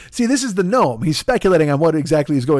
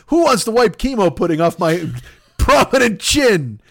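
mock plea. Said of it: "put that chunk as my bio".

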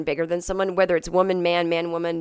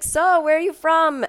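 mock leering driver; 10 semitones higher, 4 dB louder than usual.

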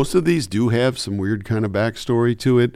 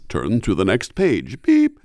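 filmstrip narrator; slower than usual. Acted. Narrator character demoed for the interviewer, slow and clear. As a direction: enunciate like a school film narrator. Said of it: "he speaks very clearly like this".

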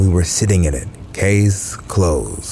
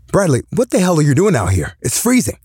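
put-on high, fast drunken yell; drunk father; 8 semitones higher, faster than usual. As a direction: holler like a tipsy dad in the cold. Drunk father yelling outside.

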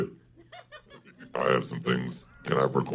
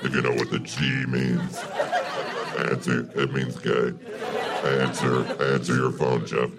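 feminine devil voice. Acted. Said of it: "devil voice sounds".

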